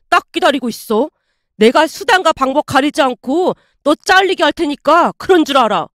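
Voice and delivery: a burst of outrage, then mild threatening; a customer threatening the manager, mildly angry; angry threat. Acted. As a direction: snap back, then threaten him.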